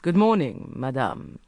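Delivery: smooth, mildly pleasant hello; courteous menace; pleasant greeting. A narrator's reading. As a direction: greet her with false politeness. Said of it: "he said pleasantly".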